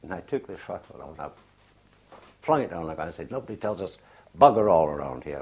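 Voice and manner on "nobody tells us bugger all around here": louder, peeved retort in a changed voice; angry outburst. Retold or imitated. Flinging the rifle down after surrender news, angry retort. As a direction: throw the words down in disgust. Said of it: "that's what made me angry".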